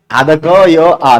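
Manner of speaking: आधा क य आ spelled out very slowly; slow sound-by-sound demo. Shown as a demonstration. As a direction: lay out each sound slowly for students. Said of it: "एक झटके में बोल रहा हूं". (धीरे-धीरे एक-एक ध्वनि बोलकर समझाना)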